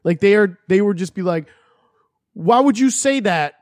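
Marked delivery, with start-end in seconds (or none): 2.3-3.5 higher-pitched mock Brooklyn movie line; mock Brooklyn accent. Mocking a singer-actress's movie lines, hammed-up Brooklyn accent. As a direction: imitate an actor attempting a Brooklyn accent. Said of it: "trying to be Brooklyn".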